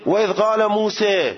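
موسی said with its last vowel fronted to "e", "Muse"; imala vowel. Shown as a demonstration. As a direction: tilt the final a of موسی toward "e". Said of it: "توش اماله است دیگه".

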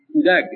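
کودک ending in a g sound, "kudag"; old final g. Shown as a demonstration. Lecturer showing how it was once pronounced, old final g. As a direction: voice the last consonant of کودک as g. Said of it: "تلفظش بوده".

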